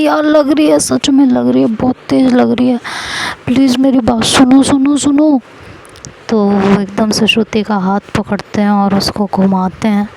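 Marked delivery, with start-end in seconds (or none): 0.0-5.4 pleading. Acted. Husband pleading after being hit.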